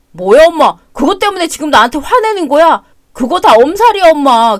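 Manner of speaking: defensive shouting. Acted. Son argues back angrily.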